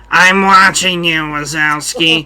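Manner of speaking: droll, deadpan bureaucrat menace; Roz from Monsters, Inc. Retold or imitated. Host does his best Roz for friends, drawn out and deadpan. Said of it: "Roz ... from Monsters, Inc".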